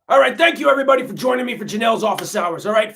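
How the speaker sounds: big loud show opener; loud announcer greeting. Acted. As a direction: call out the welcome loudly.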